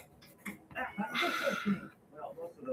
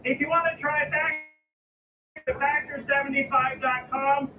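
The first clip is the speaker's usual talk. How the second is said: loud ad read; 2 semitones higher, 11 dB louder than usual. Shown as a demonstration.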